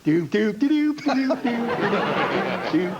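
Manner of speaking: a silly rube sputtering; Clem Cadiddlehopper. Retold or imitated. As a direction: comedian slipping into his hick character. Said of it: "He says, um".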